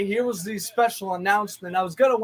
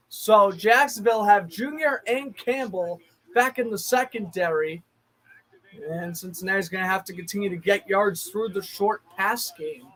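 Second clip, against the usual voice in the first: measured broadcast call; steady play-by-play. Acted. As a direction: narrate the run like a TV announcer.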